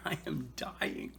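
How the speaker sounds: slow, breathless whisper in pain; barely getting words out through the burn; mouth burning from spicy food. Real, not acted. Burning from the habanero.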